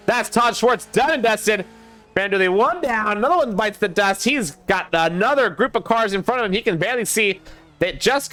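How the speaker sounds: rolling race commentary with energy; live play-by-play. Real, not acted. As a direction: drive the race call forward.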